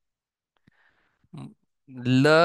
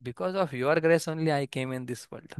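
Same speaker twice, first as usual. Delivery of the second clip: a humble, grateful devotee; humble gratitude; 4 dB quieter, faster than usual. Shown as a demonstration. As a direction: say it meekly, thankful and soft.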